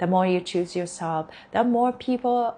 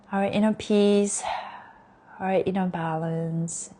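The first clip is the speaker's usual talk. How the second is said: guided affirmations. Acted.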